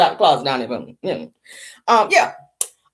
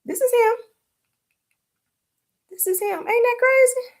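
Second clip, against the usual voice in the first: shocked disbelief; 3 dB quieter than usual. Retold or imitated. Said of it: "I said".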